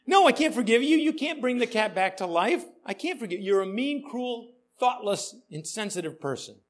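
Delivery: Judy berating the pastor over her dead cat, mock furious; mock angry scolding. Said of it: "Judy says".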